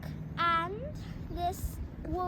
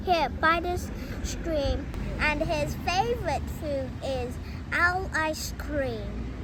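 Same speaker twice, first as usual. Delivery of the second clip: loud, bold little mouse; little mouse boldly turning down the fox, loud; brave mouse voice; 5 dB louder than usual. Acted. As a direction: play the plucky mouse, proud and sure. Mouse answers owl.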